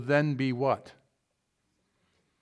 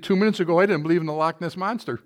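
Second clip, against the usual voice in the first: pleaded; 3 semitones higher, faster than usual. Acted. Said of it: "the man pleaded".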